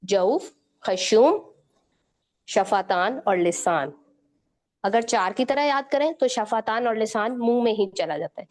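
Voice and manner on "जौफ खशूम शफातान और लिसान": slow listing. Shown as a demonstration. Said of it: "पांच असूल मखारिज बनते हैं".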